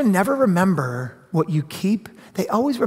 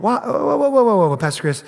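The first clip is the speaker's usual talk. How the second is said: mock disbelief; 2 semitones lower than usual. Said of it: "And you're going".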